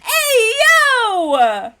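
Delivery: loud high shout of alarm; panicked yell. Real, not acted.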